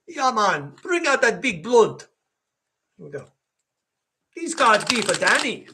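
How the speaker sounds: sharing a pretend spliff, a hint of Rasta stoner voice; laid-back Rasta stoner. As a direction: kick back like a pot-smoking Rasta. Sharing a spleef with Danny.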